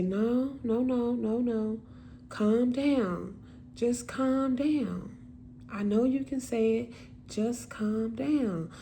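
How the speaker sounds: gently reassuring sister, retold; slow, coaxing comfort with drawn-out words; soothing reassurance. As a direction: talk someone down slowly and kindly. Sister soothing her stuttering sibling.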